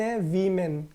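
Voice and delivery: वीमेन said with a long ee, WEE-men; the common mispronunciation वीमेन, long ee; wrong common way. Shown as a demonstration. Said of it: "लेकिन क्या वाकई में ये वीमेन है?".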